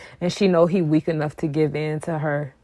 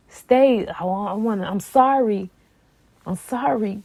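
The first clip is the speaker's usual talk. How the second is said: higher-pitched imitation of begging; mock pleading; 4 semitones higher than usual. Imitating the man begging her to stay, mock pleading. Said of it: "begged to stay with you".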